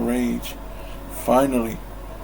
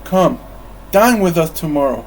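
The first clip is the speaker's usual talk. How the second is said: cheerful invitation; 3 semitones higher, 4 dB louder than usual. Acted. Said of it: "Fred said charmingly".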